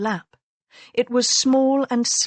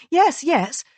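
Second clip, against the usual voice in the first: higher, brushing-off yes, yes; impatient; 7 semitones higher than usual. Acted. Wife impatiently brushes off her husband's point, higher. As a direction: wave it aside impatiently. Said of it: "waved the point aside impatiently".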